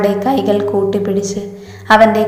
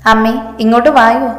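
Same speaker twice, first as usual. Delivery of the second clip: mildly raised call to mother; playful tattling call for Mum; 3 semitones higher than usual. Acted. Teasing sister calls out to mother. (അമ്മയെ വിളിച്ചുകൂവുന്ന മട്ട്)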